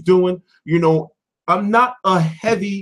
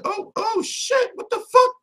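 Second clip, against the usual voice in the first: higher slow-then-sharp shocked exclamation; retold shock; slower than usual. Streamer retelling watching the clip, mock shocked. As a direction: replay the jolt of seeing it live. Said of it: "I was like".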